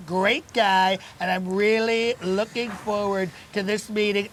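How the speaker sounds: a lightly voiced Trump, boastful and rambling; mock presidential swagger at a breakfast show; Donald Trump impression. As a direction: play the bragging president, easygoing. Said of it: "who's playing the role of Donald J Trump".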